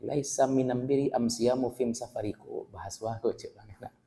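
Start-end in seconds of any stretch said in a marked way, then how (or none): 0.1-2.3 minam birri am siyamu fim safari with am for al; dialect reading. Shown as a demonstration. Teacher tells students to listen to the dialect reading. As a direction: read it in the dialect, am for al. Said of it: "Makanya dengar".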